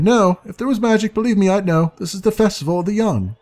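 a hint of a know-it-all fairy; lightly voiced sprite. Jan answers about the festival.

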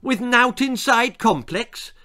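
high-pitched, mildly nervous query. A narrator's reading. Brat checks the hair product, mildly nervous. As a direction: check with a touch of worry. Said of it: "Esmeralda checked nervously".

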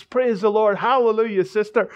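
joyful praise. Retold or imitated. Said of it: "He started doing another little dance".

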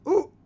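short, high yelp of surprise; imitated startled "ooh". Kid reacts to being yelled at, mock startled.

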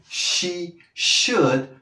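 SHOULD with a long hushing SH and silent L; demonstrated pronunciation. Shown as a demonstration. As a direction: draw out SH in "should", teacher style. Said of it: "¿Ves esa pronunciación?". (pronunciación marcada de la "sh" en "should")

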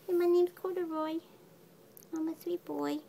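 high cutesy kitten voice speaking for him; voicing the kitten. Owner speaking as her kitten in a high cutesy voice. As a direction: pretend to be the kitten, cutely.

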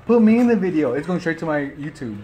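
chewing while talking; muffled laughing speech; mouth partly full. Real, not acted. Seen 1: veggies taken at -9; lips pressed, jaw working while laughing, talking.

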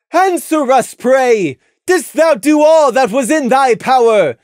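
high, loud royal interrogation; imperious moon princess; stern princess Luna. A narrator's reading. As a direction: press them like a stern royal judge. Luna demands an answer.

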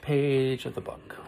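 hushed whisper. Acted. Teacher whispering to the children about the book's last page. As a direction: whisper it like a secret.

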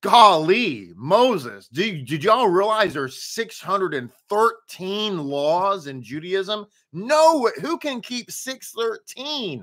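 hammed-up fear-mongering preacher; a hint of a scandalized churchgoer, half-mocking. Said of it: "They're telling people".

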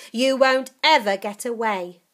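put-on threatening old witch. Grandma threatening.

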